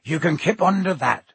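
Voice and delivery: lightly voiced gruff giant; big, hearty West Country giant; Hagrid voice. A narrator's reading.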